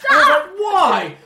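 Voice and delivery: loud high laughing cry; laughing shout. Real, not acted. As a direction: shout in amused disbelief. Laughing outrage at the scene.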